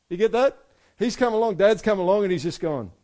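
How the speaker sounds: high, loud, driving emphasis; fired-up preaching. Real, not acted. Preacher to congregation, driving home the point, high and loud. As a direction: push the point home hard.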